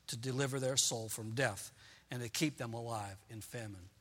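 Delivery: measured, solemn reading of a psalm; a lightly voiced pulpit reading; scripture reading. Reads psalm aloud to congregation.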